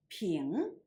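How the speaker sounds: Ping drawn out with a rising tone; second tone. Shown as a demonstration. Teacher showing students Ping in the second tone. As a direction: say Ping slowly, pitch climbing. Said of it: "pronounced in the second tone".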